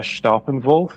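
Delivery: Steppenwolf said as SHTOP-en-volf; correct pronunciation. Shown as a demonstration. Guest shows host the correct way, Steppenwolf as Shtoppenvolf. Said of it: "correct pronunciation would be".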